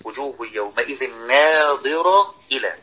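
slow, "ناظرة إلى" joined and marked; verse join shown. Shown as a demonstration. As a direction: link the last word "ناظرة" to "إلى". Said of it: "يقصد آخر كلمة من الآية مع أول كلمة". (الوصل بين "ناظرة" و"إلى" ببطء)

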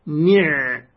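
نع as one syllable ni', closed on the ayn; ni' cut out alone to show the silent-vowel ayn; ayn with sukun. Shown as a demonstration. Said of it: "يعني العين ساكنة".

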